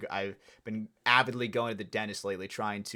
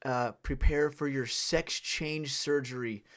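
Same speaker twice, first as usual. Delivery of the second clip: nurse voice; 3 semitones higher, slower than usual. Retold or imitated. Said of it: "the nurse is like".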